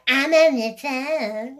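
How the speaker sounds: imitating her snooty brush-off; snippy. A mother brushing off her daughter, snippy. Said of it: "the way she says it".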